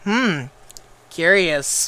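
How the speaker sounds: mock scheming Ben Shapiro. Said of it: "Ben Shapiro's gonna be like".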